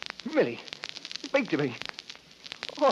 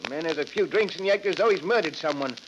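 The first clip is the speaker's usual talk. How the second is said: loud, higher defensive shout, fast at the end; 3 semitones higher, 3 dB louder, faster than usual. Acted. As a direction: bellow back at the nagging. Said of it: "Stop shouting, Henry".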